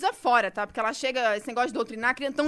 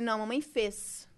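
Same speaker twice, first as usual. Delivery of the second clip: correcting mother; 4 semitones lower, 7 dB quieter, slower than usual. Retold or imitated. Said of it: "Eu falei".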